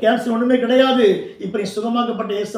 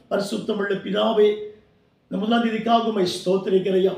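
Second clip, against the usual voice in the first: prayer. Real, not acted. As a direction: lead the congregation gently into prayer. Leads closing prayer after sermon.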